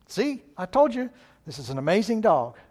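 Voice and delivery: high, loud "see, I told you"; gloating optimist. Pretend. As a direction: crow over being right. Optimist gloats over his dog.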